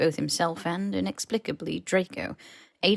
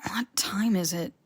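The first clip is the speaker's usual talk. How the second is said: sleepy whisper. Acted. Sleepy Harry just woken.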